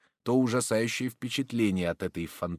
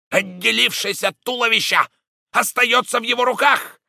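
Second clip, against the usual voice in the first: rising horror; 13 semitones higher, 10 dB louder than usual. Acted. Horror climax of Roden's tale.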